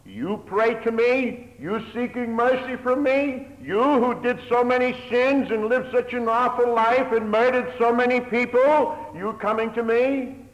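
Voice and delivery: loud, high indignant rebuke; God scorning a sinner's prayer, loud and indignant; stern God rebuking. Acted. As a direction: thunder the rebuke down on him. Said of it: "if he had said to him".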